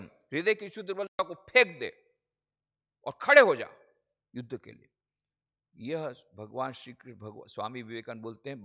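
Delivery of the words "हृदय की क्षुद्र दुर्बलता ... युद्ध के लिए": higher, much louder exhortation; loud battle summons; rousing command. Acted. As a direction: call the warrior to his feet. Rousing warrior to stand up.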